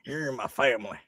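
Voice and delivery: put-on accent with a laugh; mock accent, playful; Brian Kelly accent. Shown as a demonstration. Co-host playing a coach speaking to his family, laughing mock accent. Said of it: "give me your Brian Kelly family accent".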